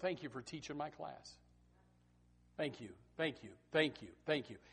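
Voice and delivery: grateful note. Acted. Student thanking a teacher for teaching, softly sincere. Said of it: "They'd love just a little note".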